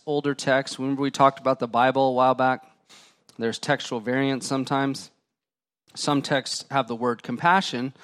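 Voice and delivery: normal talking voice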